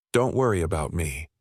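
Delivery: faking strength through a slight crack. Acted. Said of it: "Sarah's voice cracked over the line, feigning strength".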